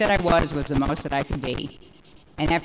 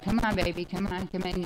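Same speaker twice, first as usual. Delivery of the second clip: soft, much quieter sweet call; quiet tender call to the dog; gentle coaxing; 5 dB quieter than usual. Retold or imitated. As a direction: coax the dog in like a baby. Calm lady calling her dog.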